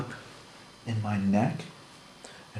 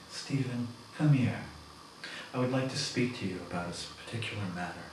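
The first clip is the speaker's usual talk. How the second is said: soft, gentle invitation; approaching coworker gently, soft and coaxing; 5 dB quieter, faster than usual. Retold or imitated. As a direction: coax him over softly. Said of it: "I approached Stephen very gently".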